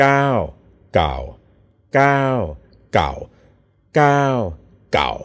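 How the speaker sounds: "gao" with tight, tense, falling low tone. Showing a learner the Thai tone for old: tight falling low tone. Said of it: "keep your voice really tight down there".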